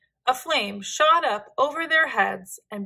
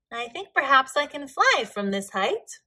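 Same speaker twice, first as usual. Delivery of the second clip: declaring; 3 semitones higher, 3 dB louder than usual. A narrator's reading. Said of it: "Yuri declared".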